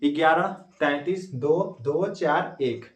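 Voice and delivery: ग्यारह तैंतीस दो दो चार एक spelled out slowly, each number apart; slow, deliberate memory code; slow dictation. Shown as a demonstration. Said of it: "बहुत सिंपल से याद हो गया होगा कोड". (धीरे-धीरे गिनती बोलना)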